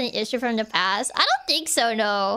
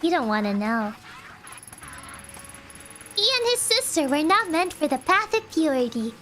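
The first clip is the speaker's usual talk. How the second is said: lightly voiced calm cult mother; creepy calm cultist. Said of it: "this cultist voice is too good".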